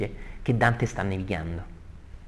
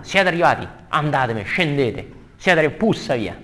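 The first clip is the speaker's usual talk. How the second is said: mock angry, raised-pitch dismissal; Fleggias; 3 semitones higher than usual. Angry ferryman dumping his passengers, mildly hammed-up anger. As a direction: bundle them out with irritable impatience. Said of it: "Arriva con la rabbia".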